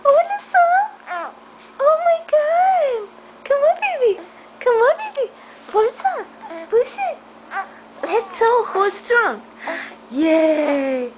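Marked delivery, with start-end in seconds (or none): 0.0-7.2 high-pitched, delighted encouragement; excited cheering. Real, not acted. Parent urging baby to push up, excited.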